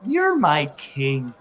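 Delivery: mild mock squeaky, pathetic plea, drawn out. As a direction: slowly imitate a pitiful little squeak. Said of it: "in that little squeaky, pathetic voice".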